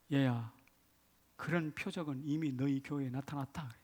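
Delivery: soft, lightly voiced fatherly God; a hint of a quiet divine voice; God speaking to pastor. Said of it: "주님께서 하신 마음이".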